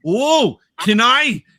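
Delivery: high, loud eager plea; excited high squeal; eager gasp. Retold or imitated. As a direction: gush it like a thrilled fan. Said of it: "with her eyes wide and goes".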